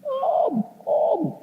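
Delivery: very high calling from the window; daughter's shout. Retold or imitated. Daughter calling the neighbour from her window, very high pitched. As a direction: call out high like a frantic girl. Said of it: "teriak-teriak".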